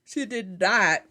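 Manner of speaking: high, loud yawn swallowing the words; yawning mid-sentence; talking through a yawn. Real, not acted. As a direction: let a real yawn stretch the words. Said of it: "I kinda yawned a little bit".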